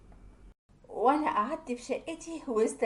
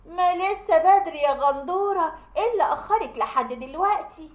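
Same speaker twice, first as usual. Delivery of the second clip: scolding yell; 4 semitones higher, 5 dB louder than usual. Acted. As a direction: drag out the mocking scold. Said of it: "قعدت تزعقلي وتقولي".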